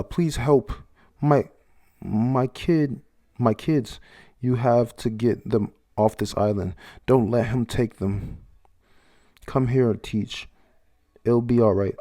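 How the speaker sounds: high, loud, slow pleading; desperate mother's plea. Acted. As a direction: beg for your children's lives. Bloodied mother begs for her kids.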